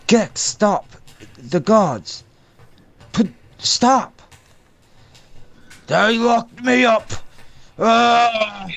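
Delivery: high, strained shouts at the guards; raging captive. Acted. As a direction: bellow in character, high and drawn out.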